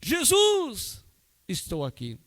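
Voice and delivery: high shouted Jesus, then dropping back; shouted call. Retold or imitated.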